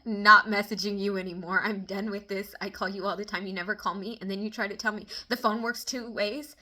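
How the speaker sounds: laughing through the retold rant to family; laughing while quoting. Vlogger quoting herself to family, laughing. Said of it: "and I was like".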